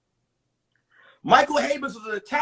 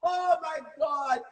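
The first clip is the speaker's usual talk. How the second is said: mock panicked wailing, higher pitched; panicked mother; 4 semitones higher, slower than usual. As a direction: imitate a frantic mom, drawn out. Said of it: "I could hear my mother".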